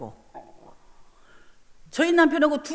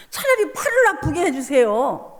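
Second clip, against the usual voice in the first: pleading. Retold or imitated. Pleading prayer while in pain.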